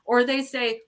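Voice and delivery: normal talking voice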